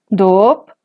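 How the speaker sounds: doop said with a rising pitch. Shown as a demonstration. Teacher demonstrating a Zapotec rising tone to students. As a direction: glide the vowel of doop upward. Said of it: "Otro ejemplo con tono ascendente".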